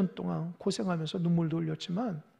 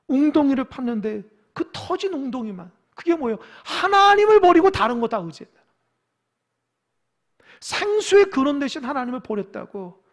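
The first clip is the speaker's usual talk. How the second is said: louder sermon voice rising on the charge; forceful preaching; 5 semitones higher, 8 dB louder than usual. Acted. Preacher charging the people with forsaking God, forceful preaching. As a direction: preach it as an accusation.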